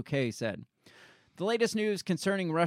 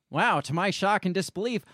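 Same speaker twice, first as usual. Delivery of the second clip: higher-pitched put-on surprise, breaking into a laugh; hammed-up disbelief with a chuckle; mock astonishment; 5 semitones higher, 3 dB louder than usual. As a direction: act amazed at your own news, jokingly. Mock statement of surprised candidate.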